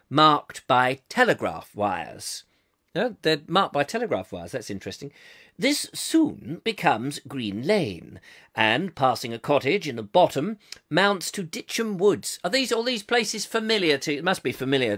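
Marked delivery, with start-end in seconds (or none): 0.1-2.4 slow, deliberate posh BBC reading; plummy, measured BBC accent. Pretend. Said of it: "another bit of the B B C". 5.6-12.4 put-on plummy BBC accent, every word weighed. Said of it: "another bit of the B B C".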